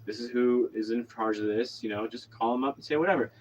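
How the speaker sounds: retold calm, matter-of-fact instruction; calmly composed, imitating own reassurance. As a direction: talk someone down evenly. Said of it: "calmly said".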